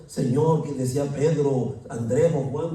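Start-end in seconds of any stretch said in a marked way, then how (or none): 0.1-0.6 loud cry to the Lord; shouted plea. Retold or imitated. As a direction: call out to the Lord. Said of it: "y seguía gritando".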